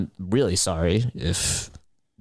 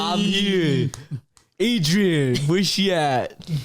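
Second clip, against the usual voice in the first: squeaky creature; 8 semitones higher, much slower than usual. Acted. Small creature voice calls out.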